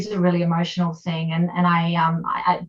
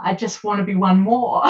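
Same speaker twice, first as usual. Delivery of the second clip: tearful. Real, not acted. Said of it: "I get very emotional".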